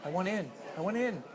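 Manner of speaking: high and fast, pushy little fish; eager fish voice. Acted. Dad voicing a pushy fish for his kids, high and fast. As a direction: hurry to get in like an impatient fish.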